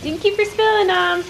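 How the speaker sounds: voicing the dog. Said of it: "She's like".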